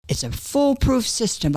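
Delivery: a touch of pride in her own cleverness; proud. Retold or imitated. Wife boasting to husband about her gift hiding, proudly. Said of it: "I said proudly".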